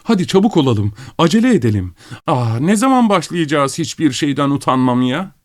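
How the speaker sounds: high, urgent and impatient, near hysterical; impatient shrieks. Acted. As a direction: egg everyone on, pitched high and eager. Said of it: "sabırsız çığlıkları".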